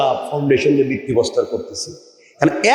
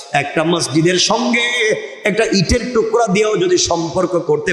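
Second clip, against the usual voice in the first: sermon cadence. Acted. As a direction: preach it in rhythmic, rolling phrases. Preaches in measured cadence.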